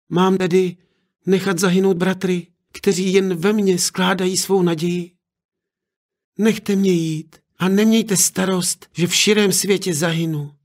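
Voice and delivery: put-on a girl begging to be let go; pleading daughter.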